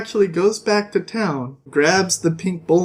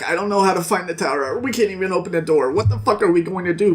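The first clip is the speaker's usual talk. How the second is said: mock frantic; much faster than usual. The speaker panicking at the closed door.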